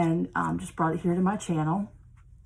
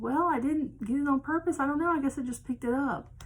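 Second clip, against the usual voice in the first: retelling own reply; 7 semitones higher than usual. Retold or imitated. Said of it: "I said".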